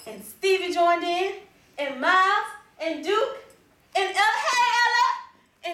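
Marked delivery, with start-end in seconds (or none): 4.0-5.7 high, drawn-out cheer on the final name; excited hailing. Acted. Naming who joined the band, hailing a singer excitedly. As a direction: cheer the singer on, pitched high.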